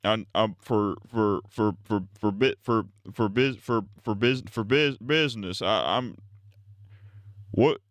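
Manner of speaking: lightly voiced stammering old politician, stuck on words; a hint of a rambling, halting old president; Joe Biden impression. Streamer plays Biden for chat, a light stammering mock impression. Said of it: "worst Joe Biden impression I've ever".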